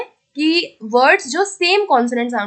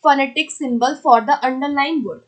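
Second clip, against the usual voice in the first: very slow, word-by-word reading of the question; deliberate dictation pace; much slower than usual. Shown as a demonstration. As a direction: read it out slowly, as if dictating to a class. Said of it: "अगला आता है".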